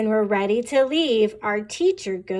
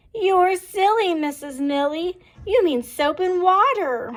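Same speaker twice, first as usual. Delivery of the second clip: put-on amused children; 7 semitones higher, 3 dB louder than usual. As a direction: laugh at the teacher's mistake. Children tease teacher.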